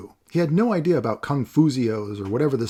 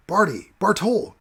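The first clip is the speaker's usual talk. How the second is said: booming call; 9 semitones higher, 3 dB louder than usual. Acted. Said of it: "came a booming voice".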